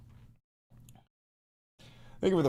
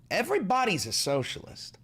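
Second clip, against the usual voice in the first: high exclaimed claim; 5 semitones higher than usual. Real, not acted. Repeats claim two ways.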